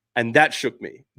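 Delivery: ordinary talk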